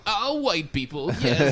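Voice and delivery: news anchor voice. Retold or imitated. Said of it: "I used to use that voice".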